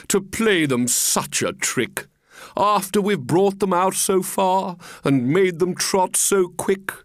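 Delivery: lightly voiced regretful walrus; a touch of grand lament; pompous walrus. Walrus pities the tricked oysters, mildly pompous. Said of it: "the walrus said".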